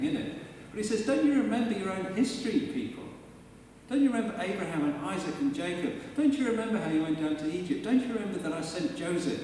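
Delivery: rising, insistent reminders to remember; pleading Lord. Acted. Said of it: "He's invoking their memory of their history".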